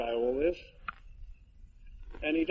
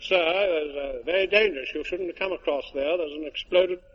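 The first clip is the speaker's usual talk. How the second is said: irate police sergeant; 3 semitones higher, 4 dB louder than usual. Retold or imitated. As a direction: scold him for crossing the rope. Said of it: "a very irate police sergeant".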